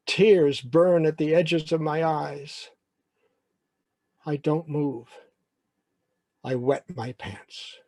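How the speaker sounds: deliberate, drawn-out storytelling; slow dramatic narration. Acted. Humiliated boy ending his story, slow dramatic narration. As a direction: let each painful line land separately.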